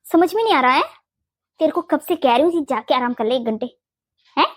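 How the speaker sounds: sharp rise on the first rebuke; exasperated scolding. Acted. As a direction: scold her impatiently into going to rest. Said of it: "आप मुझे नहीं डांट रही". (झुंझलाकर डांटते हुए)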